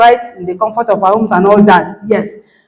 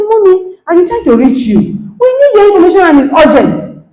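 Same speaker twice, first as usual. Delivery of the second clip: urgent request; 8 semitones higher than usual. Retold or imitated. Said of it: "I said".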